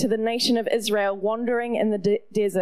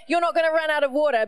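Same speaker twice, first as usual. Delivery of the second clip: God's promise; 3 semitones higher, faster than usual. Retold or imitated. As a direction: declare it quickly and firmly. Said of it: "He says".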